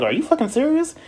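high, incredulous outburst; outraged at a buyer lowballing her again; outraged disbelief. Retold or imitated. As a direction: squeal it in sheer disbelief. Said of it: "I'm like".

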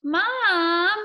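high, loud, drawn-out wail; screeched. Acted. Amanda cuts off her teasing mother, screeched. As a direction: screech it in embarrassed protest. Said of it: "Amanda screeched".

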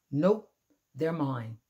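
loud possessive yell; grouchy ladybug yelling at the friendly one; grouchy scream. Acted. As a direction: claim the aphids loudly, all mine. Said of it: "screamed the grouchy ladybug".

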